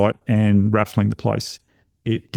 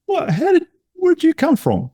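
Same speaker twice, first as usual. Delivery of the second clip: high, startled disbelief; shocked parent to a surprise visit; surprised. Retold or imitated. Parent greeting unannounced son, high shocked disbelief.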